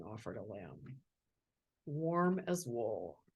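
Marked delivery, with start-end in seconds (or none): 1.8-3.2 tender and slow. Acted. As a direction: savor each word gently. Lamb's gentle line.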